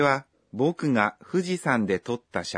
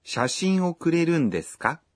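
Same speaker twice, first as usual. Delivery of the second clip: higher-pitched surprised question, rising at the end; 5 semitones higher than usual. Acted. Anna asks Kenta about getting the photo, surprised question. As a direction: ask in mild surprise, voice lifted. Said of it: "Anna is surprised and asks".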